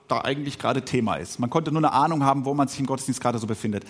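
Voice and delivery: usual speaking voice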